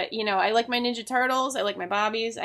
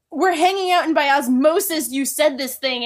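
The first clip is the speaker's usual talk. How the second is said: imitating cousin; 4 semitones higher, 6 dB louder than usual. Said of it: "She's just like".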